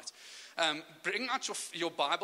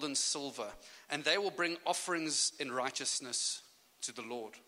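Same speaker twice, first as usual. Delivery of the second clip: scripture reading. Acted. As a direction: read it like holy scripture. Reads scripture aloud.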